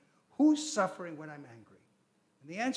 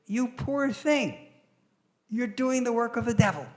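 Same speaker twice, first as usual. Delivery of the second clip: pitying; 5 semitones higher, 5 dB louder than usual. Retold or imitated. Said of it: "he says".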